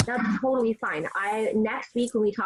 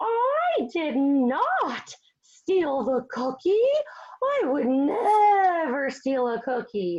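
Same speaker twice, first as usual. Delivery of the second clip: exaggerated, obviously insincere, high and swooping; 6 semitones higher, 3 dB louder than usual. Explaining how a character lies but makes it obvious, exaggerated obvious lie. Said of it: "So you would make it really exaggerated".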